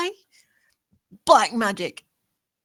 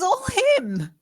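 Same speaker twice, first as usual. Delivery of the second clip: a sudden sob through the words; crying; 9 semitones higher than usual. Acted. Grace at Edmund's household, breaking into tears. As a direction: voice cracking into tears, higher.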